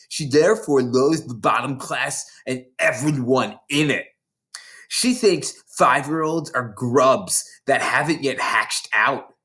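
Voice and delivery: a lightly voiced big schoolgirl, gloating; bossy older girl. Hortensia sneering at the new girls, mildly voiced. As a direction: relish scaring the little ones.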